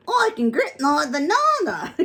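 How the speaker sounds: high, loud monkey puppet voice; proud cheeky puppet, laughing; squeaky ventriloquist dummy. Acted.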